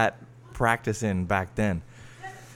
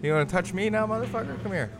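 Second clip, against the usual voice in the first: high squeaky cartoon taunt; vintage cartoon voice; 10 semitones higher than usual. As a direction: pitch way up like an old cartoon tough guy. Mock taunt at the visitor.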